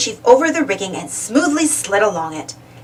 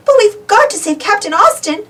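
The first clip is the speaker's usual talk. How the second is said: determined; 11 semitones higher than usual. A narrator's reading. Uniqua determined.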